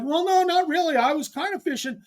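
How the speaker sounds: imitating Todd. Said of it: "And he's like".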